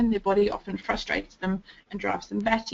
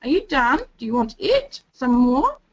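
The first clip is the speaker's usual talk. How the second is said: higher, rising question tones, one after another; quizzing questions; 3 semitones higher, 4 dB louder than usual. Shown as a demonstration. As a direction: fire off little test questions at the child. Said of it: "doing things like".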